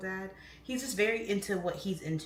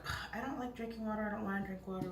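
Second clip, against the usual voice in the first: imitating a reluctant whine; mock complaint; 3 semitones higher, 3 dB quieter, faster than usual. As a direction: grumble as people who hate water. Voicing people who complain about water.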